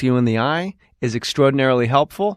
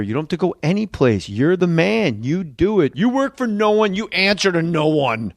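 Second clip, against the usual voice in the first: steady sponsor read. Acted. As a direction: sell the product to listeners.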